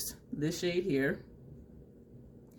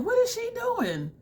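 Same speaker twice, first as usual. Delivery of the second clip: high, slow puzzled question; baffled; slower than usual. Retold or imitated. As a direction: sound completely confused. Baffled by a makeup technique.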